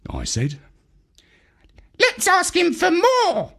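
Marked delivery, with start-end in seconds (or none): 2.0-3.5 high greedy squawk; scheming parrot. A narrator's reading. Parrot wanting more money, high squawk. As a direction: suggest it slyly in a high bird voice. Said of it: "suggested the parrot".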